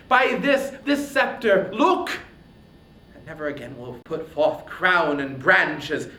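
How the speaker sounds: loud, raging warrior hurling an oath; enraged hero swearing revenge on his king; furious Achilles. Acted.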